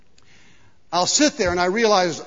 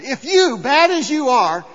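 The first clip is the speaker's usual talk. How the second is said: louder, higher scripture quote; emphatic preaching; 6 semitones higher, 6 dB louder than usual. Acted. Preacher tries again for an amen, emphatic. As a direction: drive the phrase home for a response.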